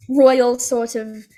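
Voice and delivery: slow, regal British accent; high British, stretched out; royal British accent. Shown as a demonstration. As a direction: draw it out in royal British English. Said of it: "proper high British sort of accent".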